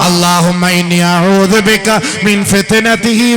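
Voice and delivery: high, loud, slow chanting preacher's voice; sermon delivered at full force, stretched slow; full-force preaching. Acted. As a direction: preach it out, drawn long and loud to the hall.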